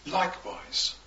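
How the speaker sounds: "Likewise" lifted high and leaned on; stressed "Likewise". Shown as a demonstration. Preacher showing the added emphasis: "Likewise" lifted high. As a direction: hit "Likewise" as the final push. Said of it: "he added even more stress".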